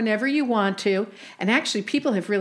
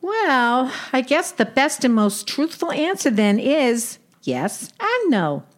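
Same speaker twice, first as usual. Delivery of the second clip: put-on old Brooklyn aunt with Yiddish lilt; yiddish accent; 2 semitones higher than usual. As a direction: play a wisecracking Jewish aunt. Sadie role in comedy skit.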